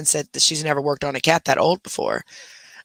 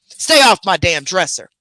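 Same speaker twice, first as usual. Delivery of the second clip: telling off; 5 dB louder than usual. Real, not acted. Telling dog off.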